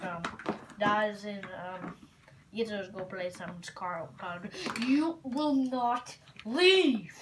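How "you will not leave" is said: slow threatening monster voice; slow ominous command; menacing monster. Acted. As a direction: draw it out as a threat.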